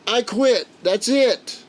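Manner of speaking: high, strained giving up; a beaten boxer calling it off, mildly voiced; pained surrender. Grandpa quitting the bare-fist fight, high strained surrender.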